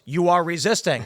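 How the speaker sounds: lightly robotic accusation; Terminator. Acted. Robot cop overrules a citizen, mechanical insistence. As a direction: insist like an unreasoning machine. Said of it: "The Terminator's gonna walk up".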